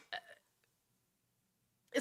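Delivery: drawn-out breathy yawn; big yawn. Real, not acted. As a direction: let out an open-mouthed yawn. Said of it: "I'm sorry if I make you yawn".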